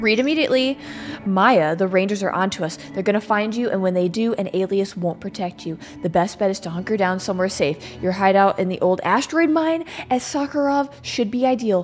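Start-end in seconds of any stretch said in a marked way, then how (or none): 1.2-11.8 reading a note. Acted. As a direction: read the letter aloud. Reads a note aloud.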